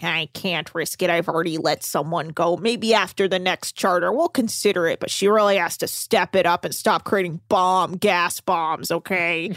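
low, measured captain; a hint of a stern captain; low, steady captain voice; lightly voiced captain. Voicing Captain Lee lower.

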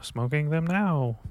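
high, lightly put-on defensive voice; mock innocent self. Quoting his own reply to Kylie, mock innocent. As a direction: play it innocent and caught. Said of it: "And I was like".

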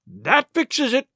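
high, slow, mildly gasped words; frightened gasp. A narrator's reading. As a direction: gasp it out in dread. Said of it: "gasped one".

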